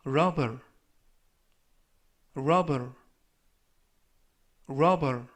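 careful dictionary-style word, spaced for repetition; slow model reading. Shown as a demonstration. Teacher reading review words for learners to repeat, slow and careful. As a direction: say each word slowly and distinctly, leaving room to echo. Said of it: "천천히 세 번씩 읽어드리고요".

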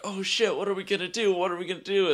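high-pitched, retold panic; mock panic. Imitating van riders as a crowd walks up, mock panic. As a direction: imitate flustered riders fretting together.

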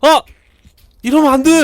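high, loud cry of protest; panicked shout. Pretend. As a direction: yell out in alarm. Panics at game mishap.

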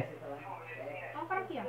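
slow hushed whisper. Real, not acted. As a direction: whisper it slowly, don't give away position. Enemy spotted nearby, hushed warning.

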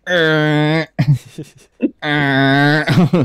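creaky chair squeak in the throat; squeaky floor noise. Retold or imitated. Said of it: "you've got a really squeaky floor".

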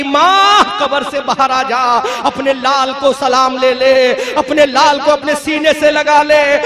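loud, wailing cries with high sobbing outbursts; weeping call to mother. Acted. Son cries at mother's grave at night, wailing. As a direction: cry out to the grave through tears. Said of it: "رو رو کر پکار رہا ہے".

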